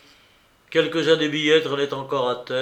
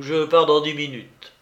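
louder, hurried announcement; exclaimed; 5 dB louder than usual. Retold or imitated. Narrator announcing his departure, exclaimed louder. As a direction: declare it on impulse. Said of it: "m'écriai-je tout à coup".

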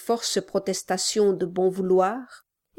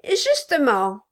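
loud, higher cry; shouting; 7 semitones higher, 4 dB louder than usual. Acted. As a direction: cry it out eagerly. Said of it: "cria le nain".

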